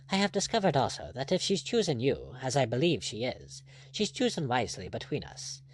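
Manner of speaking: lightly voiced, earnest buccaneer; candid pirate captain. Blood explaining himself to his rival, candid and earnest. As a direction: confess it as a frank pirate.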